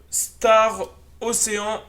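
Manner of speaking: Star Ocean drawn out slowly, word by word; careful pronunciation. Real, not acted. Vlogger unveiling an unfamiliar game, slow careful pronunciation of Star Ocean. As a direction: take Star Ocean slowly, unsure of the English. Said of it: "je sais pas si j'ai bien prononcé".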